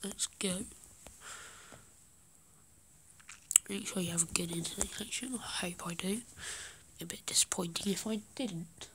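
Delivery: hushed gaming commentary; whispering. Real, not acted. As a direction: keep it to a whisper. Holds whisper throughout.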